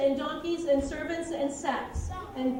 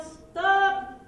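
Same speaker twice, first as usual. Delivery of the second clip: loud call to halt them; yelling; 3 semitones higher, 5 dB louder than usual. Shown as a demonstration. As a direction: shout it after the men. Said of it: "hear the manager yell".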